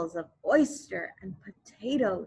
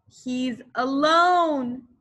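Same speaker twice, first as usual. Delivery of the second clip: crying out; 4 semitones higher, 5 dB louder, slower than usual. Acted. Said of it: "his mother cried".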